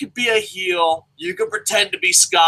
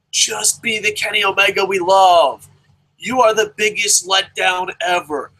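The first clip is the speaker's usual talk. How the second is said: emotional pleading. Real, not acted. Fan begging a favourite wrestler to be good, emotional pleading. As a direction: beg them as a heartbroken fan. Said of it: "I'm gonna get emotional here".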